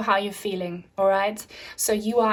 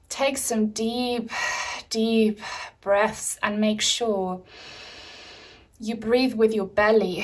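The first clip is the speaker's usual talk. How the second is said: slow calming. Shown as a demonstration. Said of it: "should do this with me".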